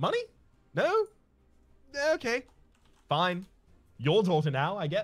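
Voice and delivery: put-on English accent. Voicing the other speaker in a pretend kidnapping call, in an English accent. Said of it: "I gave you an English accent there".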